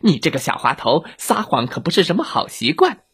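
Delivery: lightly voiced wolf telling off a child; scolding wolf. Wolf chasing the lying girl, mildly scolding. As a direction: scold a little trickster. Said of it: "伊格尔在后面追".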